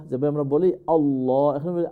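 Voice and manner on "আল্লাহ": "আল্লাহ" with heavy rounded "llaw"; full-mouth Allah. Shown as a demonstration. Teacher quoting how we say it, full-mouthed "আল্লাহ". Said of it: "always full mouth হবে".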